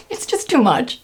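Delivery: real giggle into the words; high start, dropping as the laugh subsides. Real, not acted. Laughs at her embarrassing memory.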